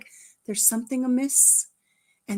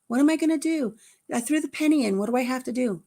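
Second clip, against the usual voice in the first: put-on higher-pitched pleading kid; imitated impatient child; 4 semitones higher, faster than usual. Granddaughter asks Grandma about the day, high and impatient. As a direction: play a child pestering Grandma.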